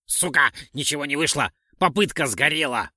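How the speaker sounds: understated yell of frustration; shouting. A narrator's reading. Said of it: "и прокричал". (раздосадованный выкрик вполголоса)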